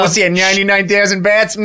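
dismissive, hammed-up Australian; Australian accent. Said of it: "Can we promise not to do Australian accents".

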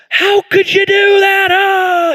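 high, loud mock accusation; exasperated outburst. Adults quarreling with each other, high loud mock outrage. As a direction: throw up your hands in outrage.

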